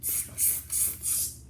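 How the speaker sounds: soft voiceless tss teasing; monkey tsk-tsk. Acted. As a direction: tut at him like a cheeky monkey. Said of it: "stamped both their feet again at him and said".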